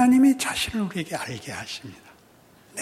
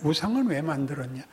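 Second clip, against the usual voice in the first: lower, weighty 우상을 leading the question; God's pointed question; 4 semitones lower than usual. Shown as a demonstration. Preacher voicing God turning the question around, grave and pointed. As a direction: turn it back on them, heavy and pointed. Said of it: "하나님이 거꾸로 얘기하는".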